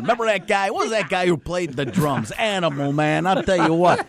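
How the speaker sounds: a pumped-up football coach; hyped coach raving about a quarterback; Jon Gruden. Retold or imitated. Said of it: "the John Gruden was great".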